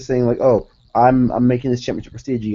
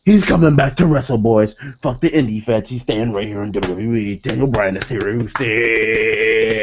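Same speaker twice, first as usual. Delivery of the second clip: excited fan hype. Pretend. Imagined fans celebrating Bryan staying, hyped.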